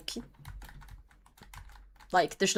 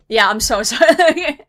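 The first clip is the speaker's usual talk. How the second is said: laughing through a fake apology; louder mock sympathy, breaking into laughter; mock pity laughing; 3 semitones higher, 10 dB louder than usual. Mocking pitying players with a laugh, laughing.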